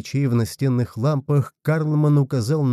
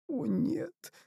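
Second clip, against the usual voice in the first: much higher and much softer, a thin moan; 12 semitones higher, 6 dB quieter, much slower than usual. A narrator's reading. Hulda moaning in despair over Bulrich's fate. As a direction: grief slipping out in a whimper. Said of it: "простонала Хульда".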